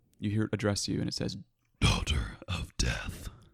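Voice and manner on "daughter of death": low, otherworldly, unearthly growling voice. Game master voicing a voice in a player's head, low unearthly growl. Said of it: "in a low, unearthly growl".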